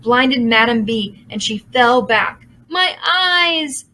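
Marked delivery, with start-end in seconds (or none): 2.7-3.9 high pained howl; howling demon. A narrator's reading. Blinded demon cries out, high howl. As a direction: howl in pain. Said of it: "she howled".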